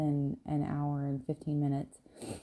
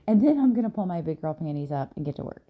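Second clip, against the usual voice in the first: emphatic quote; 6 dB louder, faster than usual. Retold or imitated. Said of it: "I'm paraphrasing".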